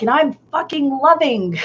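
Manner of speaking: high, giggling retelling of an angry post; half-laughing send-up of own anger; laughing mock rant. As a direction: laugh through the quote. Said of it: "I was so mad".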